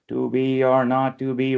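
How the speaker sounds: robotic, even beat on "To be or not to be", stressing "be", "not", "be"; robotic scansion. Shown as a demonstration. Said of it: "reading like a robot".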